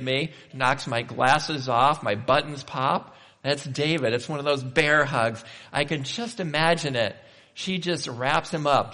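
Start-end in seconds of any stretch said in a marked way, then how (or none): none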